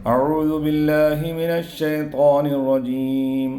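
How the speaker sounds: slow, measured recitation; slow Quran recitation. Shown as a demonstration. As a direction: recite it slowly and reverently. Recites before lesson.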